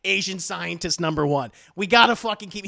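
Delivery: mock impatient script. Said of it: "the script is like".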